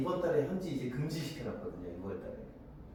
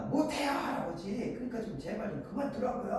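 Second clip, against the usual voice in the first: mock angry outburst; 7 semitones higher, 4 dB quieter than usual. Young man telling grandfather to quit, hammed-up angry protest. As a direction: act out exasperation, stretching the first words. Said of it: "소리를 막 칩니다".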